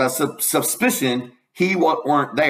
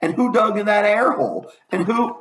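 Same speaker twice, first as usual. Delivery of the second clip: put-on higher, scandalised gossiping old woman; high village gossip voice; Old Miss Damerel; 6 semitones higher than usual. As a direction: fuss over the rag ladder like a nosy neighbour. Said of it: "says old Miss Damerel".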